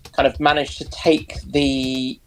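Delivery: ordinary talk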